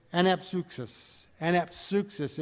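anapsuxis said slowly, an-ap-SOOK-sis; Greek word spelled out. Shown as a demonstration. Preacher teaching the congregation the Greek word, careful pronunciation. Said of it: "The word for times of refreshing is".

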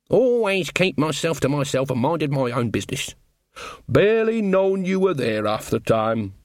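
sly, teasing old countrywoman, rising high in mock praise; butter her friend up with a wink; gossipy village granny; cheeky old witch Nanny. Nanny Ogg voiced.

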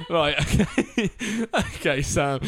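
breaking into giggles; laughing while trying to carry on; trying not to laugh. Real, not acted. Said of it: "holding back laughter".

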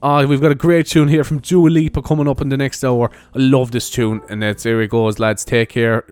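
mild imitation of an upbeat presenter; lightly put-on radio link; old radio presenter patter. Introducing a great tune coming up, mild presenter patter. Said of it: "And I used to talk like that".

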